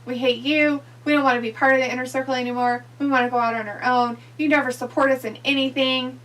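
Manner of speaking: loud, heated complaint; angry rant. Retold or imitated. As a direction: yell it like a fed-up team. Acted quote of angry wrestlers.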